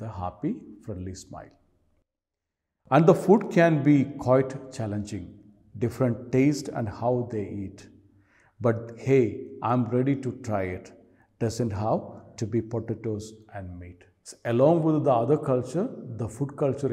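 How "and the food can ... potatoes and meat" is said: poem reading. Acted. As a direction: recite verse, each line starting loud and falling away. Reads the poem aloud.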